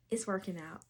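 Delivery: soft, awed murmur; quiet. Real, not acted. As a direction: say it softly to yourself. Quiet then repeated loudly.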